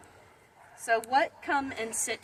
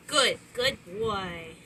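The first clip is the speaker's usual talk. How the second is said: slow praise; 3 semitones lower, slower than usual. Shown as a demonstration.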